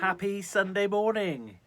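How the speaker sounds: bright, loud sing-song hello; cheery greeting. Real, not acted. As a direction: greet the viewers with a big smile.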